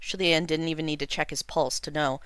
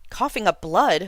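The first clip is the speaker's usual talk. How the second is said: shocked; 4 semitones higher, 6 dB louder than usual. A narrator's reading. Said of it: "Shilian was shocked".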